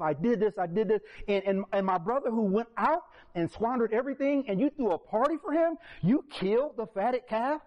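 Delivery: high, rising resentful complaint; indignant older brother. Retold or imitated. Older brother protesting the party to his father, resentful. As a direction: climb in outrage to you killed it for him. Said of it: "In his own eyes".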